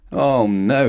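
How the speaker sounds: gasped. Acted. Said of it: "he gasped".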